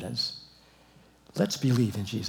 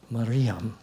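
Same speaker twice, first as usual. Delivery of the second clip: soft name. Shown as a demonstration. Jesus calling Mary by name, tender and quiet. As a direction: say Mariam softly as Jesus would. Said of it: "that's three syllables".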